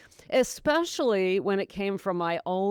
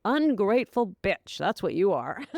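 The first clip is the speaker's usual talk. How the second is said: mock inner critic. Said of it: "It's like a voice saying".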